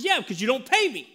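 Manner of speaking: teasing dad. Retold or imitated. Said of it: "I said".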